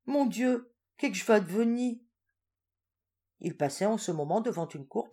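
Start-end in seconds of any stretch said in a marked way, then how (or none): 0.1-2.0 higher, a touch of hammed-up panic; old woman dismayed by the threats; mild despair. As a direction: wail it helplessly. Despairing cry.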